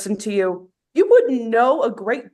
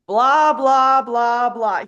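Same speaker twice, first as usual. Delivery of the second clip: dismissive; 4 dB louder, much slower than usual. Acted. Dismissive mockery of feelings.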